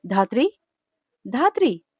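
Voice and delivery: calling her name toward the kitchen. Acted. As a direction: shout her name across the house. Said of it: "അടുക്കളയിലേക്ക് നോക്കി ഉറക്കെ വിളിച്ചു". (അടുക്കളയിലേക്ക് ഉറക്കെ വിളിക്കുന്നു)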